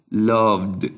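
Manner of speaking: LOVED in one syllable with a voiced final "d"; voiced D ending. Shown as a demonstration. Teacher giving a second example, LOVED finished on a clear "d". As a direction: model LOVED, sounding the last D. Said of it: "se pronuncia como D".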